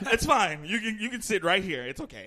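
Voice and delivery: lightly put-on reassuring white voice; Aaron. Imitating Aaron offering a seat, white voice. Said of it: "Aaron go".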